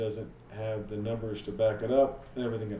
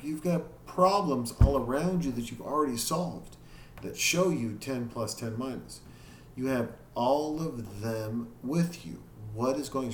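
retold exasperation; 2 semitones higher than usual. Dad retelling scolding daughter over forgotten math, exasperated. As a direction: lecture like a fed-up parent, mildly heated. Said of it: "I got pissed and I popped my top".

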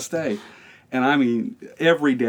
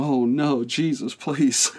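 panicked plea; 4 semitones higher, 4 dB louder, much slower than usual. Retold or imitated. Retold panic as fight looms.

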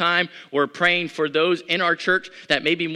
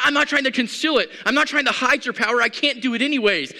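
a hint of fervent David; David's declaration; 8 semitones higher, 4 dB louder than usual. David tells God he won't hide his power, fervent. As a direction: speak as David, declaring boldly. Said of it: "He says".

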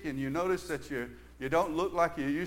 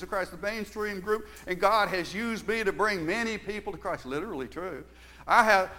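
a touch of pulpit proclamation, louder attack; lightly voiced preacher; 2 semitones higher, 5 dB louder than usual. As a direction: mildly imitate a preacher testifying to the congregation. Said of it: "the preacher in his meetings would say".

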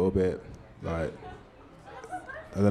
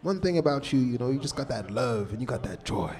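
much higher put-on voice of an old soul singer; bad impression of a soul singer; 5 semitones higher than usual. Old singer backstage advising a young musician, much higher put-on voice. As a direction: pitch way up, an elder handing down advice. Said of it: "I'm doing the worst accent ever".

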